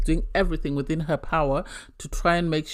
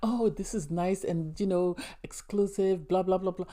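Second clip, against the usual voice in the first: mock giddy Cody; 6 dB quieter than usual. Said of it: "he's all excited, he's all giddy".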